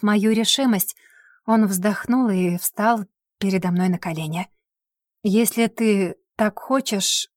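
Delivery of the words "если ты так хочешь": slow, firm offer, last word louder; firm, resigned dare. Acted. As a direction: say it with resolve, kneeling. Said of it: "твёрдо сказал он".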